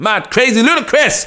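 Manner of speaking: old-style high put-on hype catchphrase voice.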